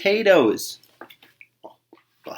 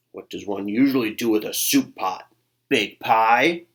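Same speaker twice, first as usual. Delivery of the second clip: unkind varmint. Acted. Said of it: "not too kindly".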